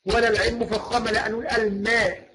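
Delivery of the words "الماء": الماء with a thin, fronted vowel after م; light meem. Shown as a demonstration. Teacher correcting the first syllable, الماء with light م. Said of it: "نرقق الميم".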